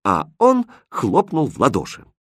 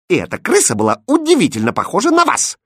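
high, loud retort; snapping back; 9 semitones higher, 5 dB louder, faster than usual. Acted. Princess snaps at the stewardess, loud sharp. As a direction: bite back at her. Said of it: "огрызнулась принцесса".

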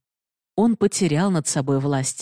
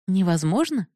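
mocking repeat; 4 semitones higher than usual. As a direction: throw his word back at him. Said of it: "повторила Бенадини". (насмешливый переспрос «Невозможно?»)

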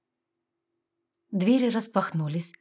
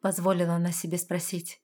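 plain reading voice

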